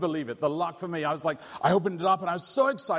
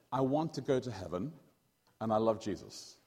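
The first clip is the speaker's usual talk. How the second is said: slower; 4 semitones lower, 4 dB quieter than usual. Shown as a demonstration. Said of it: "I'll say it a bit slower".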